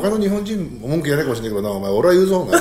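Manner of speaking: half-laughing imitation of an angry customer; retold angry rant. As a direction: act out laying down the law to the cook. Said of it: "俺本当怒ってんだよね".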